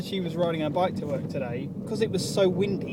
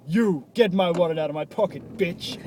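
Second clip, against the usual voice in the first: louder bossy order; mock rude demand; 5 dB louder than usual. Mocking how the friend asked, loud rude order. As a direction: bark it like a rude boss. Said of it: "He didn't just go".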